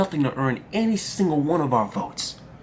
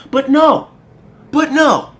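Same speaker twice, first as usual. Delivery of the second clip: loud angry refusal; 6 semitones higher, 5 dB louder, slower than usual. Real, not acted. Angry rant.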